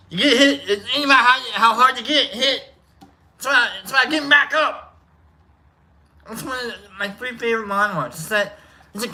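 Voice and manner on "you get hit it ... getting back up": bad Philly accent Rocky impression; lightly done Philly tough guy, fast at the end. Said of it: "really bad Brooklyn accent attached to it".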